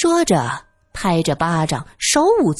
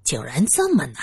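sighing; 5 semitones lower than usual. Acted. Luo Yin grumbles about getting a meal, sighing. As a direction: let a mild weary sigh carry it. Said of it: "罗隐叹了口气".

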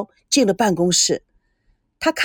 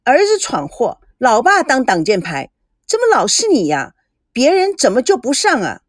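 pouting; 2 semitones higher than usual. Acted. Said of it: "赵美娇嘟着嘴".

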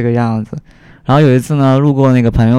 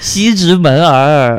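mock Beijing erhua; slower than usual. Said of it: "恶意模仿".

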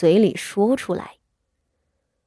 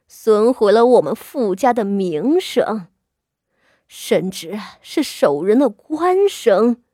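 cold sneer. Acted. The old mistress sneers at her daughter-in-law, cold. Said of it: "傅老夫人冷笑".

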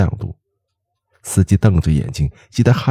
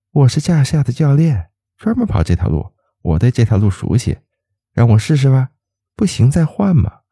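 smiling; 6 semitones higher than usual. A narrator's reading. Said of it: "姑娘笑笑说".

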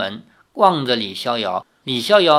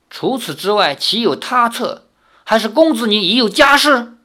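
higher, pressing harder into the final question; stern, severe; 7 semitones higher, 4 dB louder than usual. A narrator's reading. Grandmother questioning the suitor about a wife, severely. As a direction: demand an answer, rising in severity. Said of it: "声色俱厉".

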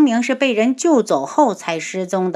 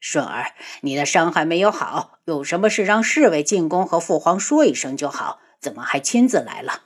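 tender concern; 4 semitones lower than usual. Acted. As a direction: soothe a hurt son gently. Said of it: "心就疼了".

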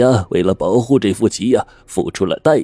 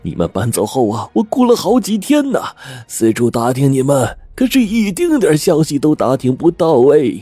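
higher, eager and fond; sweetly feigned concern; affectionate; 6 semitones higher than usual. Acted. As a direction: play innocent warmth to an old brother. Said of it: "仍然亲热地说".

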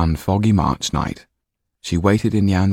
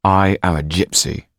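through gritted teeth; 4 dB louder than usual. Acted. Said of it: "said Jan through gritted teeth".

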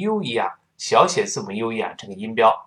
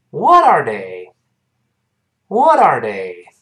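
slow model reading; 5 dB louder, slower than usual. Shown as a demonstration. Teacher models line for repetition.

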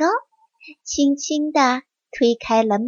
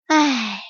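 sigh. Acted. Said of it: "叹了口气说".

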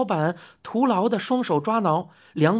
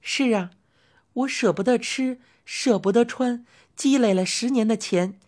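soothing lady customer; 3 semitones higher than usual. Acted. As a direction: coax the old man kindly. Customer recounts savings.

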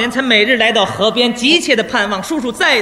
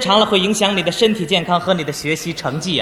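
patient counsel; 3 semitones lower than usual. Acted. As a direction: coax the boy along kindly. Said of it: "因势利导". (耐心开导的语气)

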